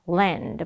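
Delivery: "land" slowed, with a distinct L at the start; clear L. Shown as a demonstration. Teacher models the L sound, "land" drawn out clearly. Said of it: "그래서 L 발음".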